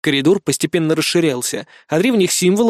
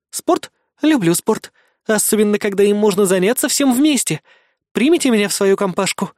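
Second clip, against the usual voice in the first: innocent voice; 4 semitones higher than usual. Acted. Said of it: "таким невинным голосом".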